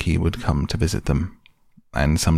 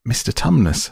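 higher, urgent repeated call; distressed; 6 semitones higher than usual. Acted. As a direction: call his name again in distress. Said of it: "said Lucy in a great distress".

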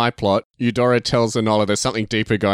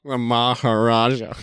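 mock Maharaja; slower than usual. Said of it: "it always gets me when he says the Maharaja".

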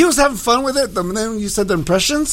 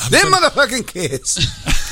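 Bernie Mac impression; 2 semitones higher, slower than usual. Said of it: "All right, Bernie, relax".

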